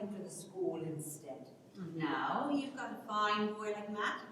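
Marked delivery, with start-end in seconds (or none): 1.9-4.2 slow teasing through a laugh; teasing with laughter. Acted. Sally teases Ellen about Matt, laughing.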